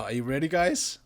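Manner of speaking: rising eager build-up; hyping up. Acted. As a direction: tease the big reveal. Hyping the reveal to viewers.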